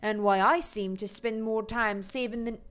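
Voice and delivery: put-on Jamaican accent. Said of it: "That was the switch into Jamaican".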